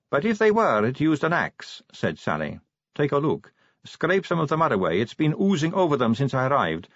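high, kindly helpful tone; generous young vampire. Acted. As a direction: offer it generously, lightly. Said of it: "she added generously".

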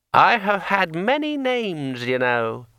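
talking sword. A narrator's reading. Sword Kring speaks.

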